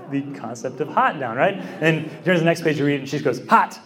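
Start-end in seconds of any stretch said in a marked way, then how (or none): 3.5-3.8 imitating a toddler's high, emphatic one-word cry; mock toddler exclamation, pitched up; intense toddler. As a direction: blurt it like a proud toddler. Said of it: "just in the intensity".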